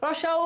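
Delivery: রস্যাউ with the tongue pulled back and lips rounded; vowel demo. Shown as a demonstration. Teacher shows back rounded vowels, said clearly. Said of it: "উচ্চারণ করো রস্যাউ".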